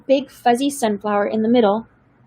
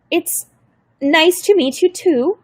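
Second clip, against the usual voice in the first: put-on polite old lady; 6 semitones higher, slower than usual. A narrator's reading. Grandmother answers caseworker.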